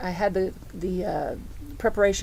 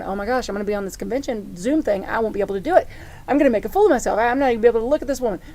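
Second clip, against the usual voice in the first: retold panic, louder and rushing toward the end; freaking out; 5 dB louder, much faster than usual. Speaker retelling her panic before the Zoom convention, mock freaking out. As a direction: replay a mild freak-out, building in volume. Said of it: "I started freaking out".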